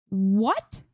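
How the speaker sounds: high, shocked "What?"; horrified shout. A narrator's reading. Streamer just headshot, shouting in horror. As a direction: blurt it out in horror. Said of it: "Zoe shouts in horror".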